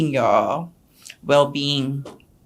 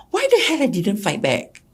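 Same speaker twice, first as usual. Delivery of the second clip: close to tears; 5 semitones higher than usual. Real, not acted. Questioning herself, upset.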